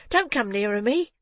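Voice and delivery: put-on high, frightened boy backing away; horrified boy. A narrator's reading. Terrified boy warning off the murderer, high and afraid. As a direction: recoil from him in horror. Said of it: "looking with horror in his eyes".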